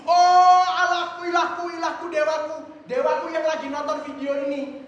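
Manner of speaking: a frantic father's prayer, begun as a shout; desperate cry to God. Acted. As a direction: cry out to heaven in panic. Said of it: "dia teriak gini".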